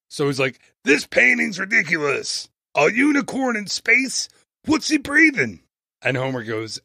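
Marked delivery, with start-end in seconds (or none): 0.8-5.6 put-on Texas accent. Retelling the warden scoffing at a painting, mild Texas accent. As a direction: lightly imitate a Texas prison warden's disbelief. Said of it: "he has a really thick Texas accent".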